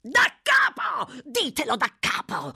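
high, loud yelled command; furious shout. A narrator's reading. Fagin orders Noah to tell it over, yelling. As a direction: yell it, stretching the first order. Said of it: "urlò Fagin".

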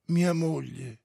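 calm, simple answer. A narrator's reading. Oblomov telling Stolz about his wife, calm. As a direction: state it evenly, without fuss. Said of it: "disse tranquillo Oblomov".

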